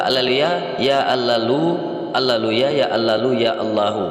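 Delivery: "haleluya" drawn out, rising into "ya Allalu"; slowly morph "haleluya" into "ya Allahu"; sounded-out word link. Shown as a demonstration. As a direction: repeat "haleluya, ya Allalu" evenly, endings lifted. Links two pronunciations by repeating them.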